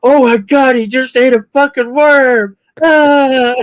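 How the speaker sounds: high, loud horrified lady; 1 shocked lady. Retold or imitated. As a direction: gasp at the worm eater. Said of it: "she'd be sitting there".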